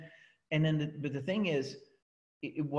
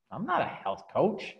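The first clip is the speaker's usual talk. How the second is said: proud dismissal. Shown as a demonstration. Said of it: "did you see the expression on my face".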